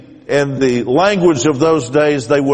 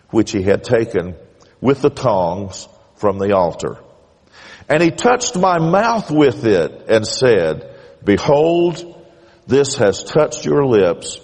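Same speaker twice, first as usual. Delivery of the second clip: scripture reading. Acted. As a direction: read the passage like a prophecy from the pulpit. Reads Isaiah six aloud.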